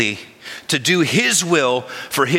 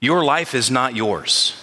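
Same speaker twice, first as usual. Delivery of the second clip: slow, solemn declaration. Real, not acted. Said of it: "listen, listen well".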